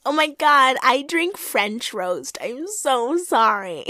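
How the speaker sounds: slow, airy mock Monique; airheaded Monique. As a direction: stretch it out like an airhead. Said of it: "She's like".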